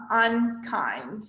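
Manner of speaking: UNKIND in two deliberate beats, UN then KIND; chin-bump syllables. Shown as a demonstration. Teacher demonstrating a chin bump, UNKIND in two beats. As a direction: give each half of UNKIND its own beat. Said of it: "you can do a chin bump".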